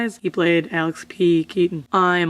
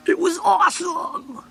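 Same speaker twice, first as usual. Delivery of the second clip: excited shout; 12 semitones higher than usual. Real, not acted. Childhood memory of meeting Mister Dress Up.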